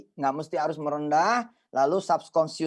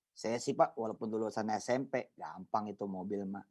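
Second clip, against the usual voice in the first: mock humble boast; 8 semitones lower, 10 dB quieter than usual. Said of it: "kita ngomong tawadu nih".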